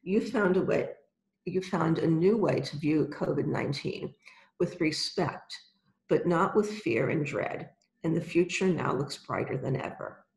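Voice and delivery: calm guided visualization, unhurried; right in your ear. Acted. Guided visualization with eyes closed.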